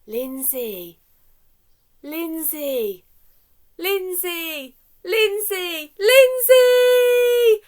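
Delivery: from plain to a big high shout; name grows to a loud shout. Shown as a demonstration. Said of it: "say your name so loudly".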